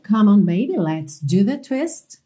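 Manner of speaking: slow, clear phrase for repetition; slow model line. Shown as a demonstration. Teacher giving students a line to repeat, slowly and clearly. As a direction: stretch out "do the twist", ending on a clean T.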